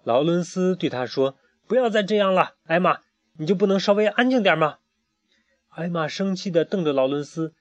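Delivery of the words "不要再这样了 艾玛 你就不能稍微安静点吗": pleading scold. A narrator's reading. Lawrence scolds restless Emma.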